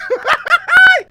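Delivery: big burst of laughter; loud laugh. Real, not acted. Host laughing at own remark.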